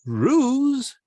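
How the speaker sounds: "ruse" for rose, rhymed with lose; mispronounced to rhyme. Shown as a demonstration. Speaker jokes about English spelling, rose said like lose. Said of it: "L O S E is lose".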